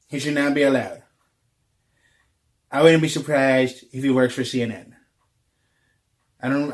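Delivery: lightly voiced Trump bluster, loud in places; blustering presidential put-down, barely shifted voice; a hint of a Trump rally rant; Trump impression. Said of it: "me channeling the current president ... Donald J Trump".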